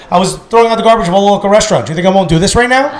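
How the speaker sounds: proud fast boast. Retold or imitated. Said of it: "She's like".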